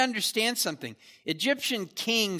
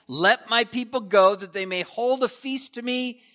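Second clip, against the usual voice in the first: demanding; 3 semitones higher, 4 dB louder than usual. Retold or imitated. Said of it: "just a demand".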